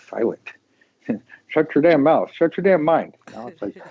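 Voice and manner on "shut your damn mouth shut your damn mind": snapping shut your damn mouth; brusque fake telling-off; mock scolding. Mock telling loud people off.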